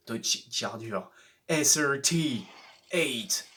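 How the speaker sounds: put-on car name read in a light English accent; a hint of an English accent on the car name. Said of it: "Pourquoi j'ai pris l'accent anglais?".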